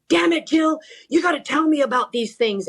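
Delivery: imitating a frustrated coach, pitched high; exasperated coach. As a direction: snap at her like a caught-off-guard coach. Coach caught off guard, scolding.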